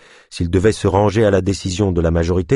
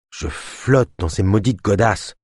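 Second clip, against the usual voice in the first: grumbling; slower than usual. Acted. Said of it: "maugréa Ava".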